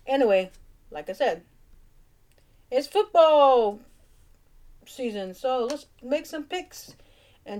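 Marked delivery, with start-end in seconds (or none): 2.7-7.0 stretched, high and loud football hype; hyped. Acted. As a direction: sell the start of the season. Hyping football season.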